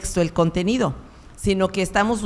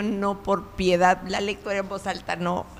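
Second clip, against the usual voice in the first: mock pleading; 3 dB quieter than usual. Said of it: "y decía yo".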